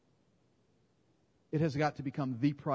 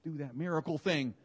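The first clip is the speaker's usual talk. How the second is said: mock disciples pleading; 3 semitones higher than usual. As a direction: beg like reluctant followers. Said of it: "They go".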